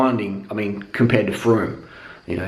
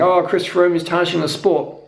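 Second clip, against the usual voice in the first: put-on higher voice of a complainer; mocking a critic; 6 semitones higher than usual. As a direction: imitate a whining online critic. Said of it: "I saw someone today saying".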